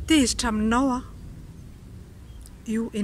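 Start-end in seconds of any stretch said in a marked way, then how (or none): 0.1-1.0 mock angry. Shown as a demonstration. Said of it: "Et là, je me fâche".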